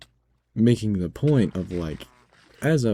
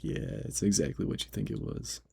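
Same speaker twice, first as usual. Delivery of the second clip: softer, breathy confirmation; whispered reply; 6 dB quieter than usual. Retold or imitated. Cashier whispering to coworker across registers. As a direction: hush it to the coworker. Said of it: "And I was like".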